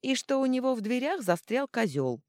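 high, cheeky mimicry; Vita's voice imitated. A narrator's reading. Little god insulting the butler as Vita, mimicking her. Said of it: "ответил Кипиш Витиным голосом".

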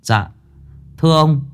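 put-on respectful child voice, lightly done; polite child. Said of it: "lễ phép".

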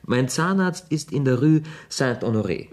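laughing through the words; amused laugh at a silly question. Acted. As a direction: chuckle it out, amused by her question. Laughs while answering Gigi.

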